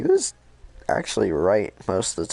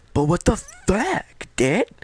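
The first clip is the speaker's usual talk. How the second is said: high squeaky mock outrage; 12 semitones higher, 3 dB louder, slower than usual. Connor's outburst.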